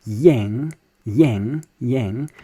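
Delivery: "yang" with a y glide in front; y sound first. Shown as a demonstration. Teacher drilling "yang" with an added y sound, y glide first. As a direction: repeat "yang" starting on a clear y sound. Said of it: "you add a y sound just before".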